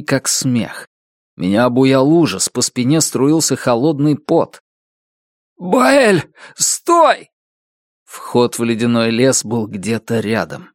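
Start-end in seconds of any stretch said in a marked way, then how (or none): 5.6-7.3 terrified call. A narrator's reading. Narrator calls after departing Bael, terrified cry. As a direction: scream after him in panic.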